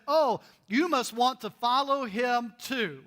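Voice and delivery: slow, drawn-out mock suggestion on Oh; sarcastic. Blind man turning it back on the leaders, sarcastic. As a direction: lean into the fake sweetness. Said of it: "in his sarcastic moment".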